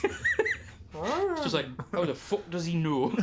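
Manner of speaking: real laughter through the words; can barely get it out for laughing. Real, not acted. Player laughing at a friend shouting from the bath, real laughter.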